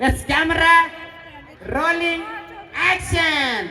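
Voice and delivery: high, drawn-out film-set call; director's call. Pretend. Director to the actors starting a take, calling out.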